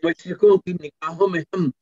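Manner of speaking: measured, rhythmic poetry recital; stately nazm recitation. Acted. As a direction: declaim each line to the audience. Resumes nazm after anecdote.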